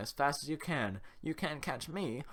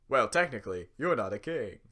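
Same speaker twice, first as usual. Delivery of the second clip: talk show host; 3 semitones lower, 6 dB louder than usual. Acted. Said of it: "he sounds like a talk show host".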